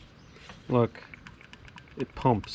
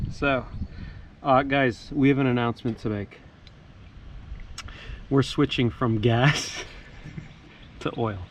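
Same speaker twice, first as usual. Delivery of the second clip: announcing big news. Acted. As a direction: make it a big reveal. We have an announcement.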